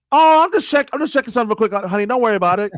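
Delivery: high, hasty-excuse husband voice; placating husband. Acted. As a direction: play a husband covering for himself to his wife. Voices husband placating his wife.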